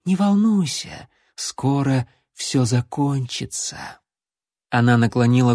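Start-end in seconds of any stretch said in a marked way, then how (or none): 0.0-3.8 soothing purr. Acted. Vampire soothing her victim.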